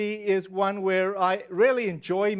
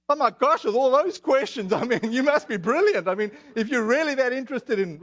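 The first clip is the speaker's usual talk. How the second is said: re-enacted amazed gushing, higher and louder; mock amazement; 4 semitones higher, 3 dB louder than usual. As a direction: act out being mildly astonished by someone. Acts out his amazed reply to Lisa.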